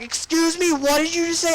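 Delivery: very high put-on outraged voice; mock indignant disbelief. Adult reacting to a rude demand, mock indignant squeal. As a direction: squeal it in exaggerated offence.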